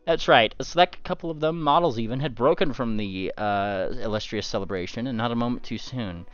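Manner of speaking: GM reading a newspaper report aloud; news article read. Acted. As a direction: announce it like a reporter.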